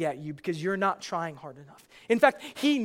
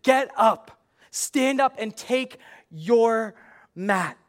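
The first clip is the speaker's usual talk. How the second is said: proclaimed command; 3 semitones higher, 5 dB louder, slower than usual. Acted. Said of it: "the next words are".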